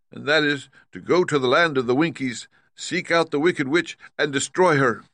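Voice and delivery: high-pitched, firm lion voice; resolute Cowardly Lion. Acted. Lion answering Dorothy with a plan, high and resolute.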